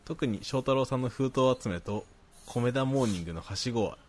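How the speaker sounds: even, articulate read-aloud; reading listener mail. Acted. Host reading a listener's praise to co-host, reading aloud. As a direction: read the letter out neatly.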